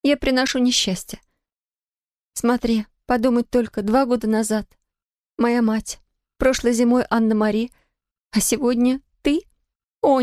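a lover sure she brings misfortune; distraught young woman. Acted. Sonya laments her bad luck. (высокий отчаянный женский голос)

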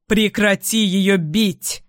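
a slow, firm bark of a command; man barking at the mother to stop; barked order. Acted. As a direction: snap it out to stop her. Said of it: "рявкает Том".

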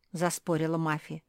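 ordinary delivery

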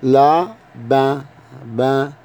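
لا then با, split apart; لا... با, spelled out for a learner; syllable by syllable. Shown as a demonstration. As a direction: break لابا into its two syllables. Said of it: "لابا يعني أرنب".

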